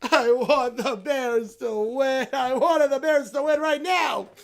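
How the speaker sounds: whining heartbroken bear fan; sulky whine. Acted. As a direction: mope and whine like a child losing. Bear sulks after crying.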